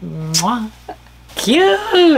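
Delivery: excited squeal. Real, not acted. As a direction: squeal it like a fan. Squealed shout at goodbye.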